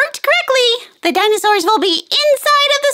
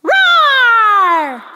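mock dinosaur roar. Hostess voicing a toy dinosaur for kids, playful roar. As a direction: growl like a friendly dinosaur.

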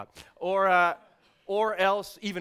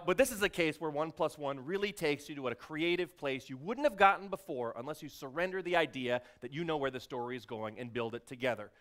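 ordinary delivery

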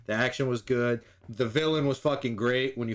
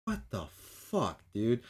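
low, slow, quiet what-the-fuck; baffled disbelief; 4 semitones lower, 6 dB quieter, much slower than usual. Retold or imitated. Weasel reacting to his teammates, slow and baffled. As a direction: say it slow and soft, stunned. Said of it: "and he's like".

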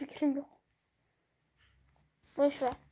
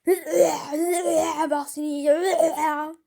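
lightly voiced playful zombie moan, laughing; mock zombie; 4 dB louder than usual. Gamer playing the zombie to his viewers, mock moaning. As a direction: ham up a zombie threatening to eat you. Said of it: "üle, üle diye sesler çıkıyor".

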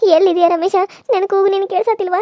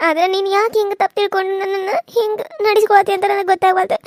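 pleading through tears; weeping victim begging Geeta; tearful plea; 2 semitones higher than usual. Acted. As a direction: beg her, voice crying.

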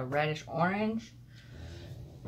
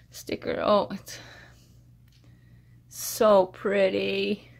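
excited; 3 semitones higher, 7 dB louder than usual. Real, not acted. Thrilled by sticker gift.

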